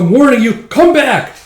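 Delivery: very high, loud frantic yell; shrieking commander. Acted. Commander yelling at hesitant troops, very high shriek. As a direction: screech at the troops to attack.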